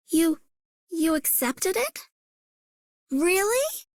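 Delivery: hesitant disbelief, rising at the end; pleasantly surprised. Acted. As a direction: react with tentative surprise, questioning upward. Disbelief at proposal being accepted.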